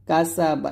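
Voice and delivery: কাসা বা with sharp S; whistling sin. Shown as a demonstration. Teacher showing tongue position, কাসা বা with sharp S. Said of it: "এরকম".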